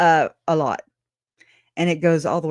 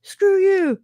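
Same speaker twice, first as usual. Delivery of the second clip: mock snarl; 13 semitones higher than usual. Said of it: "They're like".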